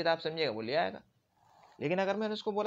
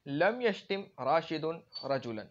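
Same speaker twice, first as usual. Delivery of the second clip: each Arabic word read out slowly; slow example reading; much slower than usual. Shown as a demonstration. Teacher reads the example slowly to students. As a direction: dictate the example sentence to the class. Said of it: "مثال،".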